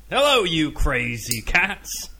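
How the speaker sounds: slow, high, loud bad Welsh accent. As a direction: ham up a terrible Welsh accent. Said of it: "That's the worst Welsh accent I've ever heard".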